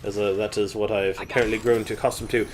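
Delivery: put-on British English accent all along; a Winston Churchill London accent, kept up; fake British accent. Vlogger telling the trip story in a fake British accent.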